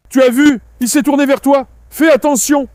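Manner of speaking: startled, warn him the dog turned; alarmed warning. Real, not acted. Dog turns on a friend.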